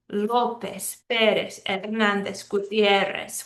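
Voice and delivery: LÓpez, PÉrez, HerNÁNdez, GuTIÉrrez, each name separate; stress on second-to-last syllable. Shown as a demonstration. Teacher listing names, López to Gutiérrez stressed on second-to-last syllables. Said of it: "We're stressing the second to last syllable".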